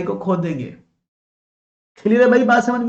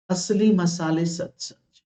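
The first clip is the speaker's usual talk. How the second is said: slow, drawn-out jingle line; measured imitation of a spice ad; ad slogan; slower than usual. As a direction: recite it like an old TV ad tagline, unhurried. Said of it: "एक ऐड आता था बचपन में".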